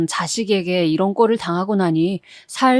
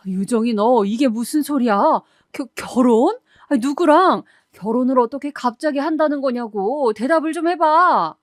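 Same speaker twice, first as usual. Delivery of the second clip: mildly outraged mother, pitch climbing; 4 semitones higher than usual. Acted. Mother phoning daughter about a sudden wedding, outraged. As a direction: demand answers in stunned indignation. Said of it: "제가 노발대발하면서 전화를 했는데".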